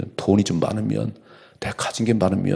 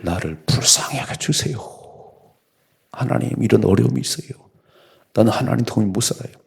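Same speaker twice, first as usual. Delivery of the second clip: pleading prayer; 3 semitones higher than usual. Shown as a demonstration. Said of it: "수굴하지 말고".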